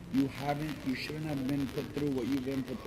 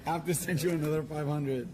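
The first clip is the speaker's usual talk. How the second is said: crying with laughter. Real, not acted. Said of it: "you're making me cry so much".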